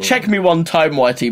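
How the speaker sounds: a hint of the Jamaican accent, quick; tossed-off yardie quote in a faint Jamaican accent; lightly mock Jamaican accent. Quoting the favourite line in a faint Jamaican accent. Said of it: "makes me laugh my head off".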